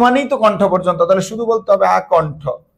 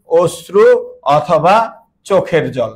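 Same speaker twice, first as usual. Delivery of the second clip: slow prompting; slower than usual. Shown as a demonstration. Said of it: "teacher stretches words".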